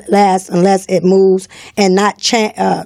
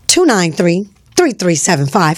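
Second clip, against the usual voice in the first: phone number slowly, in separated groups; slowed down; 2 semitones lower, slower than usual. Real, not acted. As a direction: read the digits out slowly, pausing between groups. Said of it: "Let me slow down, y'all".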